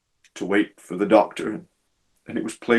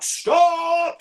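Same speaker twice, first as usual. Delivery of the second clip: high shouted call of Stop!; 3 dB louder than usual. Retold or imitated. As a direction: call out Stop! to the driver down the line. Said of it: "calling out".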